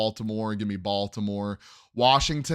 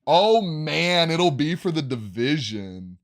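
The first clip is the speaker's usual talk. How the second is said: excited; 5 semitones higher, 5 dB louder, slower than usual. Real, not acted. Excited about division game.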